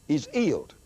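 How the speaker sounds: "He's healed" said as "'e's 'ealed", no H sounds; imitating an English preacher's "'e's 'ealed", both H's silent; dropped H's. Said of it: "he didn't pronounce H's".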